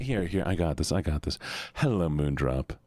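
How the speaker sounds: sinking into a low, sleepy voice. Shown as a demonstration. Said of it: "what I sound like when I'm not sleepy".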